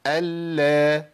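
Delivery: "ال" with L held, then released into a; doubled lam, fatha. Shown as a demonstration. Teacher demonstrates the doubled lam, held L with fatha. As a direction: hold the L of "ال" and open to a short a. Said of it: "المشدده بفتح".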